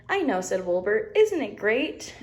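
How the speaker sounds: high, gleeful lamb voice; high excited Wilbur; delighted little lamb. Acted. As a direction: beam with pride, way up high. Wilbur catchphrase.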